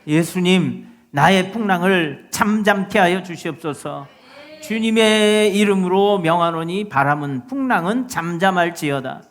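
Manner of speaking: firm, loud prayer aloud; commanding prayer declaration. Shown as a demonstration. Preacher shows believers praying to calm the storm, commanding declaration. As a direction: declare it with authority over the storm. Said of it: "입으로 시인하여 구원에 이른다고".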